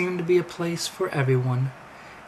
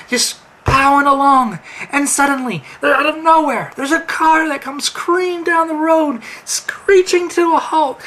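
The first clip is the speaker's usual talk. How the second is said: tense; 10 semitones higher, 6 dB louder than usual. A narrator's reading. Narrating crash, rising tension.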